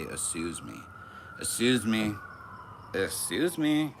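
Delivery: put-on high, drawn-out Valley Girl excuse me. Shown as a demonstration. Mocking backers-up with a slow Valley Girl excuse me. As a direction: stretch it like a ditzy Valley Girl. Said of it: "you say".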